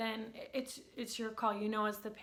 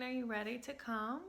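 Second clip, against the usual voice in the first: soft calming voice; 4 semitones higher than usual. Shown as a demonstration. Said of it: "I use a really soft, calming voice".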